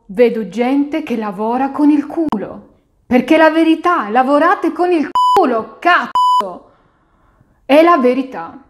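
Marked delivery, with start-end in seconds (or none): 3.1-6.7 explosive italian cursing. Real, not acted. Ranting about lazy workers.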